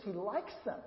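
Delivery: likes rising and held; stress on likes. Shown as a demonstration. Pastor showing the children what likes means, stressing likes. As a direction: give likes a lift, then fall away on them. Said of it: "Do you hear the difference?".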